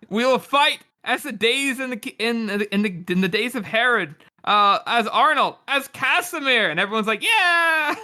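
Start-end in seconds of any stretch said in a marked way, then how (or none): 0.1-6.7 rallying. Acted. King rallying speech. 7.2-8.0 high cheer. Acted. Crowd cheers.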